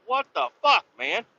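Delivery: high incredulous cry; disgusted disbelief. Retold or imitated. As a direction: react to a truck full of trash, half yelling. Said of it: "And I was like".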